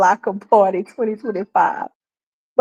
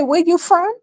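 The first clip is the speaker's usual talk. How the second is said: high pointed questioning; mock question; 8 semitones higher than usual. Vlogger acting out quizzing a self-styled Chinese man, high and pointed. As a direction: press for origin. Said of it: "when I say".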